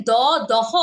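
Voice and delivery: দহ as two syllables with separate হ; wrong letter name. Shown as a demonstration. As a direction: mispronounce it as "দহ". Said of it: "না, দহ না". (ভুল উচ্চারণে দহ)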